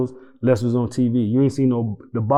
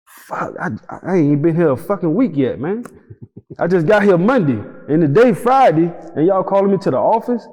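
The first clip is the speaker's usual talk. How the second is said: panicked; 5 semitones higher than usual. Retold or imitated. Panicked reaction to being called in.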